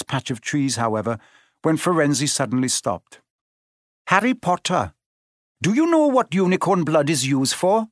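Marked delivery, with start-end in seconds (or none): 4.1-7.9 solemn centaur, lightly raised; grave, measured centaur. A narrator's reading. Centaur Firenze speaks.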